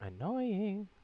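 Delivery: hoarse, scratchy sick voice; raspy voice. Real, not acted. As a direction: rasp it out through a sore throat. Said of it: "I sounded like a raspy bee".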